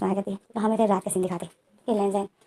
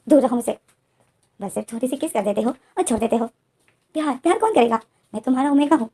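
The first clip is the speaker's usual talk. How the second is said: hurt angry rant; 3 dB louder than usual. Retold or imitated. Wing angrily rejecting his husband.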